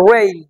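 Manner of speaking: "রেইন" opening on a curled English r; rounded, drawn-in r starting "রেইন"; tongue-curled r. Shown as a demonstration. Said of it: "জিভের সঙ্গে জড়িয়ে কেমন করে যেন".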